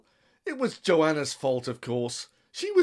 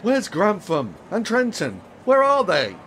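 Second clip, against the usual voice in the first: a flustered man losing his temper; angry demand; 3 semitones higher, 3 dB louder than usual. Acted. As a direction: bark the question at her. Demanding the missing colleagues, furious.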